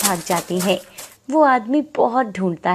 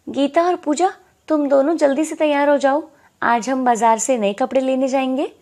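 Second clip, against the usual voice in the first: put-on aunt calling the girls; 5 semitones higher, 3 dB louder than usual. Aunt calls the girls excitedly.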